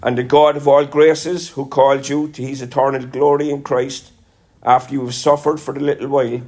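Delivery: scripture reading. Acted. Preacher reading one Peter to the congregation, measured and solemn.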